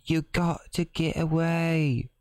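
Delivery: high squeaky fish-creature voice; Fishman voice. Acted. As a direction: pitch way up into a little fish-man. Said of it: "reaching back to my Fishman voice".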